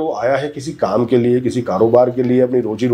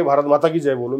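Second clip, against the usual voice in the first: a bossy demand, pushed on someone; mock forced order. Shown as a demonstration. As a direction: lightly imitate someone forcing the slogan. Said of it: "अगर आप मुझे जबरदस्ती कहेंगे". (ज़बरदस्ती का हल्का नकली हुक्म)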